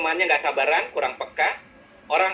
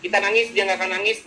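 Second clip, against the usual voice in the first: impatient retort, higher and louder; orang B tak sabaran; 4 semitones higher, 4 dB louder than usual. Acted. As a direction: act out an impatient listener's complaint. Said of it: "dia bilang gini". (gerutu tak sabar, nada meninggi)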